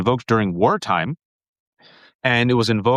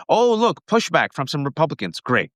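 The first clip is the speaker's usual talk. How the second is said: mock hopeful voice; 3 semitones higher than usual. Mocking hopeful onlookers.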